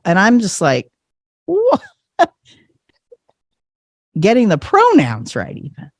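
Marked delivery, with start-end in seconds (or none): 1.5-1.8 very high-pitched mock disbelief; stunned. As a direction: squeak out a retold stunned reaction. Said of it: "I was stunned".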